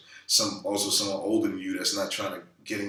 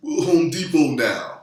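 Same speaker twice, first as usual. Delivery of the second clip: high, loud mock voice of gossiping onlookers; mocking gossipy people; 7 semitones higher, 10 dB louder, slower than usual. Mocking people who gossip about a broke star, high and loud. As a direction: sneer it like people gloating at someone's downfall. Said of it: "you know, people".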